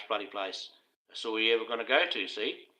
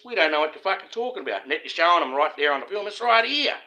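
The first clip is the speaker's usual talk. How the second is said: incredulous, rising mock protest; sneering back-and-forth of a cover-up; mocking officials; 6 semitones higher, 6 dB louder than usual. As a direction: play the smug denier, then jab back higher and louder. Mock officials denying, then insisting.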